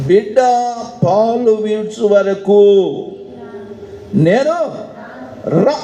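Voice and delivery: slow, emphatic imitation of a resolute mother; firm vow. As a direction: voice her refusal word by word, pitch climbing. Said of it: "అంత గట్టిగా చెప్తుంది ఏందమ్మా". (గట్టిగా, నొక్కి చెప్పే స్వరం)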